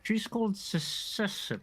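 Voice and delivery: high, strained, breathy whisper; strained throat voice. Acted. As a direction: squeeze the name out high and strained. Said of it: "you're sounding terrible".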